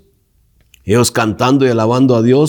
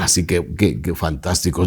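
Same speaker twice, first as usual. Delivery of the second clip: unimpressed shrug; 3 semitones lower, 6 dB quieter than usual. Retold or imitated. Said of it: "no diga".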